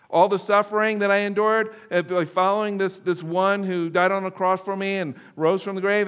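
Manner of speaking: protesting that all is lost, mildly acted; imitated bitter despair. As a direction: act out John's anguish without real sobbing. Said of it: "He wept angry, uh, like, ugly tears".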